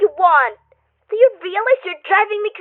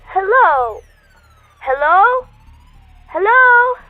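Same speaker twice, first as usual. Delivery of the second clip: rising, louder calls into the dead phone; exasperated, nearly yelling; impatient calling; 3 semitones higher, 4 dB louder, slower than usual. Acted. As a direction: shout hello down the line, losing patience. Frantic caller on dead line.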